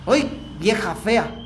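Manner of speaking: put-on slow, scornful mutter about an old woman; mock a grumpy complaint, drawn out; slow scornful "vieja fea"; annoyed grumble. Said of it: "cuando alguien me hacía enojar".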